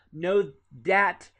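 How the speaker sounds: "dat" with a hard D instead of TH; Southern D for TH. Shown as a demonstration. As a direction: hit "dat" loud, Southern-style, with a D. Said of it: "dat with a D instead".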